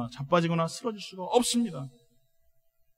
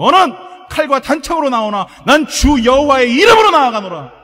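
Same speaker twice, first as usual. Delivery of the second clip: loud, slow heroic battle declaration; defiant full-voiced proclamation; David; 6 semitones higher, 12 dB louder than usual. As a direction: thunder it at the giant, stretched out. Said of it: "다윗이 뭐라고 얘기합니까".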